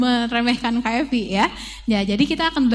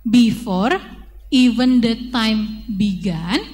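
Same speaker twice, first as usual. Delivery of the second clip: slow, careful lyric read; teacher reading a song line to children; reading lyrics slowly; 3 dB louder, much slower than usual. Shown as a demonstration. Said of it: "lirik yang kedua dia bilang".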